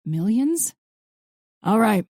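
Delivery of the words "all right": grumbling. A narrator's reading. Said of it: "Max grumbled".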